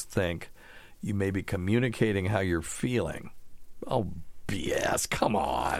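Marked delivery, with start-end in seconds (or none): 3.9-5.8 scoffing. Real, not acted. Scoffing at a theory.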